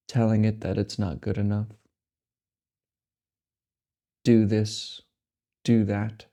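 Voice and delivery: unhurried meditation guidance with long silences between phrases; measured, spacious delivery, letting each phrase settle; guided meditation. Acted. Meditation guide helping listeners accept the mind as it is, unhurried guidance.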